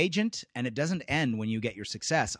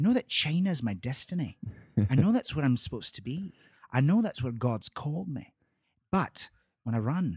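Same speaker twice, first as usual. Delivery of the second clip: put-on Scottish accent, put on; 2 semitones higher than usual. Retelling a film scene, quoting Eric Liddell's reply in his Scottish accent. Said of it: "let's see if I can affect the Scottish accent".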